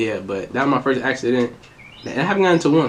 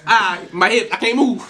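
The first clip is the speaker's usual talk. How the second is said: high, laughing fake-pain complaint; mock injured; 5 semitones higher than usual. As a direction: pretend you're too hurt to move. Fakes injury as a joke.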